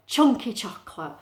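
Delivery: emphatic CH in "chunky chocolate"; "chunky chocolate" picked out as an example; alliteration demo. Shown as a demonstration. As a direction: punch both CH sounds of "chunky chocolate". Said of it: "write an adjective to describe it".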